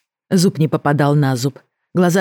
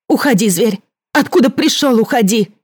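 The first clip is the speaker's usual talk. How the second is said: shout; 7 semitones higher than usual. Acted. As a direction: drive the beast away with a cry. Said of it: "крикнула Леся". (крикнула Леся зверю, громкий приказ)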